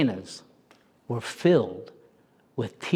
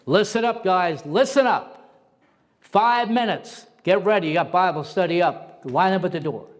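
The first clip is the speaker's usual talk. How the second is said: loud, higher call to the inmates; intercom announcement; 5 semitones higher, 4 dB louder than usual. Retold or imitated. Guard on the intercom calling inmates to Bible study, loud call. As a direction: bark it out like a guard over a PA.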